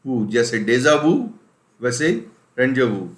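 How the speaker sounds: वू said loud and clear, like डेजा वू; pronunciation demo. Shown as a demonstration. Teacher drilling the ending of रेंजोवू for students. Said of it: "इसका उच्चारण सीधा last में आ जाएगा वू".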